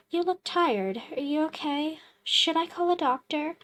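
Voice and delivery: bright, quick, eager stranger voice; a pushy visitor, quick and chipper; cheerful stranger. Acted. Visitor role in game.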